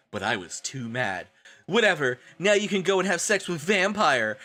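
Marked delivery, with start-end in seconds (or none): 1.7-4.4 mild mock shout. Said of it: "I shouted".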